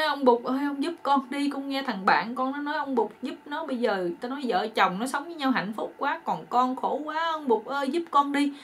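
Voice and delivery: hammed-up pitiful appeal; mock tearful plea. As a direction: beg the fairy as if crying. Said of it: "Cái kỳ này nó khóc lớn hơn".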